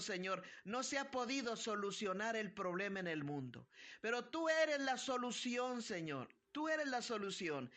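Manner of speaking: earnest pastor praying aloud for healing; fervent prayer. Acted. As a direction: pray over the sick with rising conviction.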